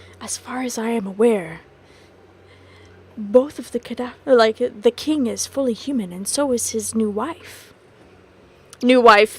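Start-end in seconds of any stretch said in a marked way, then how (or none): 0.2-7.7 discreet, confiding, private tone. The captain leans in close so he cannot be overheard: very quiet, hushed. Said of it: "very, very quietly".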